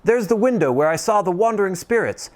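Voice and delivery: high, fast, giddy calling out; giddy Scrooge. Acted. Scrooge shouting merry wishes to the whole world, giddy. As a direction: bubble over like a schoolboy. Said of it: "cried Scrooge".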